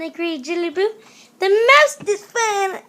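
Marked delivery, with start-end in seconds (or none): 1.4-2.8 high, slow, drawn-out delight; excited little sister. A narrator's reading. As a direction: top the others, stretching it out. Excited sisters topping one another.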